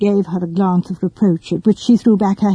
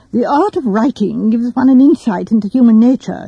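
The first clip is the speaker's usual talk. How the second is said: grave; 3 semitones higher than usual. Acted. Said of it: "he said gravely".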